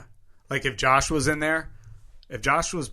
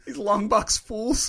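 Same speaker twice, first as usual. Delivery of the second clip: slow, higher sneering villain; scheming villain voice; 7 semitones higher, much slower than usual. Pretend. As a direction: sneer it like a mustache-twirler. Voicing the scheming clerk.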